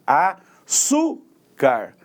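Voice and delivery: "Açúcar" very slow, broken up around "çú"; stronger penultimate syllable. Shown as a demonstration. Teacher defining paroxytones, drawn-out stress on "Açúcar". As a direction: isolate and stretch "çú" in "Açúcar". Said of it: "pronunciada com maior intensidade".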